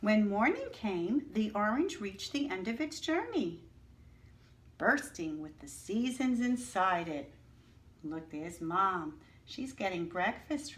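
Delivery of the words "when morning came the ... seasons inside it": story narration. Acted. Teacher reading the story to her class, dreamy storybook narration. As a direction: paint the winter night for the children. Reads picture book aloud.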